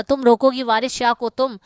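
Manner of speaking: mildly angry challenge, not quite a shout; angry retort. Acted. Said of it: "وہ غصے سے بولا".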